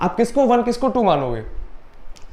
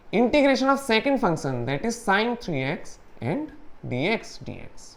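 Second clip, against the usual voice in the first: slow dictation; 5 dB quieter, much slower than usual. Shown as a demonstration. Dictating formula while writing.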